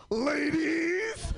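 high loud call to the ladies. Pretend. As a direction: shout out hopefully across the room. Calling out for Pokemon trade.

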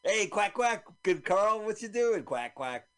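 high-pitched talking duck; duck impression. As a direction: chatter and quack like a cartoon duck. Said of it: "Did you hear my duck impression".

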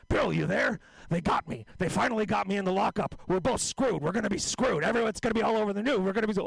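lightly voiced old-timer, panicking; Epstein as George Burns. Jeffrey calling Bill from prison, in a light old George Burns voice. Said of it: "Jeffrey Epstein sounds like George Burns".

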